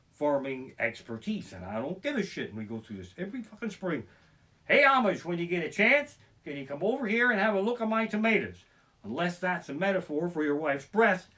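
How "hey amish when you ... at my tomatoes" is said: mock neighbor. Neighbor asking Amish for help.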